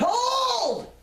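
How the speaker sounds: high, loud ringing herald's cry of command; heraldic call. Retold or imitated. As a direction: call the passer-by to halt like a herald. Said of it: "in my best heraldic voice".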